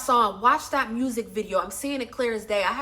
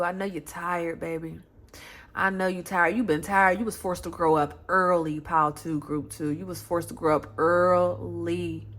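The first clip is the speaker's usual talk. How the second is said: tender comfort; 5 semitones lower than usual. Real, not acted. Comforting tired viewers.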